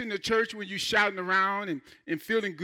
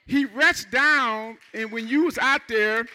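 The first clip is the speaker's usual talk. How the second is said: preaching loud; 2 semitones higher, 5 dB louder than usual. Acted. Preacher building to a climax.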